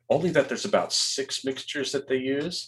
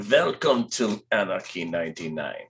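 slow, low trailer narrator; movie trailer voice; 3 semitones lower, slower than usual. Retold or imitated. Host recalling the film, slow trailer-voice intro. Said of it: "this voice in my head that says".

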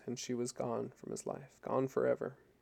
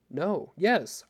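louder, higher conflicted cry; torn outburst; 4 semitones higher, 8 dB louder than usual. A narrator's reading. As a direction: blurt it out, torn between answers. Torn man answers her plea.

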